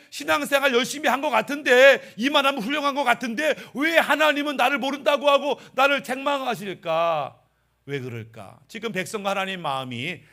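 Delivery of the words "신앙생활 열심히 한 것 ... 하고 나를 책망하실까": aggrieved puzzlement. Acted. Voicing bewildered believers' grievance.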